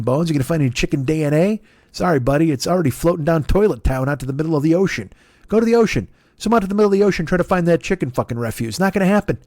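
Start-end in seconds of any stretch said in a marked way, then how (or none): 5.5-9.4 mock taunt. Taunting the chicken's lawyer.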